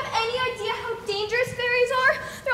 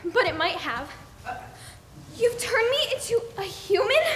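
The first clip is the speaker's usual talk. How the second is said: ordinary delivery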